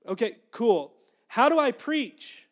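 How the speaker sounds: loud, high, stretched-out plea; silly exasperation. Retold or imitated. Preacher pleading with God for practical answers, comically exasperated. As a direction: press the question with comic impatience. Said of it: "saying this kind of like, you know, s-, in a silly way".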